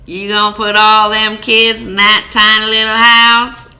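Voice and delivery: a hint of a judgmental old lady; snooty neighbor. Older neighbor lady scorning the family's tiny house, lightly voiced.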